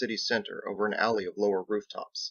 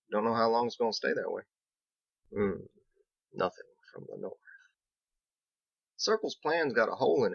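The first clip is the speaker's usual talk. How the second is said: easygoing country mason, a bit worried; lightly voiced Biggs. Biggs telling Captain about the north, folksy and worried.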